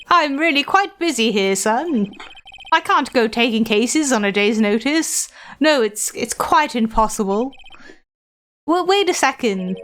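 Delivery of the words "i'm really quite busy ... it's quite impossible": lightly voiced grand old gentleman; a hint of a self-important lawyer; pompous old lawyer. Old lawyer receiving a young visitor, lightly pompous.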